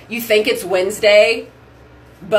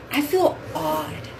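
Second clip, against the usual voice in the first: 1 mock odd voice; 7 semitones higher, 7 dB quieter, slower than usual. Real, not acted. Slow odd voice.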